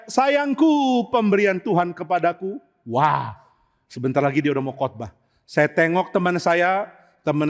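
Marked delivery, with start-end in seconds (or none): 0.1-2.6 high, drawn-out endearment; mock-pious sing-out to a spouse; sweet calling. Wife calling her husband in romantic church language, sweet calling. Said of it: "orang ini panggil suaminya".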